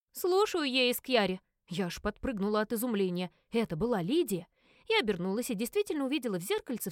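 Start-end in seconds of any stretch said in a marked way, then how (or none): 0.1-1.4 brisk, tense answer. Acted. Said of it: "бойкое, напряжённое".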